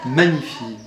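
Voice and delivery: "Magnifie" opened out broadly; wide articulation. Shown as a demonstration. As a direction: let "Magnifie" spread wide on the lips. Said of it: "c'est très large".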